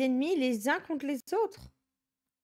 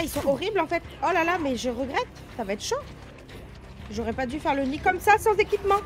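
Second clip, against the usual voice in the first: panicked; 4 semitones higher, 4 dB louder than usual. Real, not acted. Fleeing a horde in panic.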